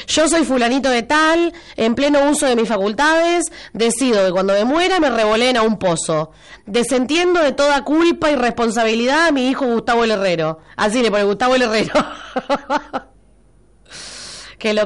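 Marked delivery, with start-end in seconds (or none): 0.1-10.6 mock formal declaration. Host drafting a listener's burial will in a mock-solemn voice. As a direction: read it like a solemn notarized will. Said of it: "No sé si eso tiene mucha validez".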